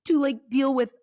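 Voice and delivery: high, mock-indignant questioning; incredulous protest. Prophet questioning God's choice of nation, mock incredulous and high. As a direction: plead in hammed-up disbelief.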